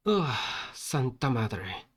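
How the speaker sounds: slow, worn-out sigh; acted exhaustion. Protagonist totally fatigued after the bus ride, slow tired groan. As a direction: drag it out as if drained. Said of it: "totalmente fatigado".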